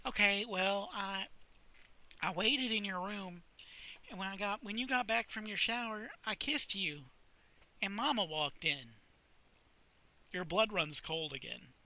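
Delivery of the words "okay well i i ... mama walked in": put-on slightly higher hesitant girl voice; lightly voiced shy librarian. Sally confessing the kiss to Chuck, lightly higher. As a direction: confess it haltingly.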